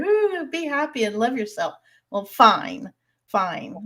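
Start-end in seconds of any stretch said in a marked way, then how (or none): 0.0-1.7 mock sweetness. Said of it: "they're just like".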